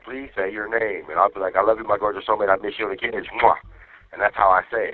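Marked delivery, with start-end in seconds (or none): 0.0-1.1 automated phone prompt. Retold or imitated. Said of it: "it'd be like". 1.6-3.6 rattled-off love message; quick run-through into a kiss; said fast. Shown as a demonstration. Husband showing how he records his name, said fast. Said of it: "That's how fast I say it".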